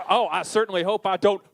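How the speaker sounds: mock Deadwood frontier accent; hammed-up Western accent from Deadwood. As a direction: put on a doomed Deadwood townsman's accent. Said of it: "voice of a guy who's about to get murdered on Deadwood".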